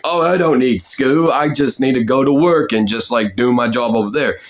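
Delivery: lightly voiced Cockney worker; working-class Cockney. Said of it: "the working class is where".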